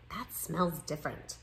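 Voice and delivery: soft, low, hushed read; whispering. A narrator's reading. Classmates remarking on an unfamiliar smell, lightly hushed. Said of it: "Nimmy heard whispering".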